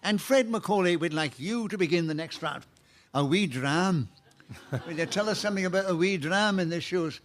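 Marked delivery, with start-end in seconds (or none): 3.1-7.2 put-on host teasing Scottish guest, Scottish accent. Host teases Scottish panellist in mock Scottish accent. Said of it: "with a Scottish accent like I'm doing now".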